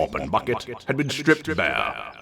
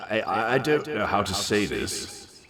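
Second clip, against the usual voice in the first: stammering, hesitant start; nervous stammer; 3 semitones higher than usual. Acted. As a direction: struggle to get it out. Nervous confession to Anon.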